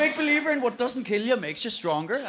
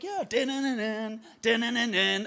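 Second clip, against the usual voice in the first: confident; 3 semitones higher than usual. Pretend. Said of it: "I'm like".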